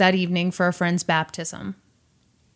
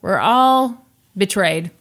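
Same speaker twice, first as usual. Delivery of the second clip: mock shock; 3 semitones higher, 3 dB louder, slower than usual. Mock shock at husband's casino lie.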